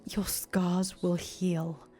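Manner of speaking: whispered farewell; slow tender whisper. Acted. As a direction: comfort her gently in a whisper.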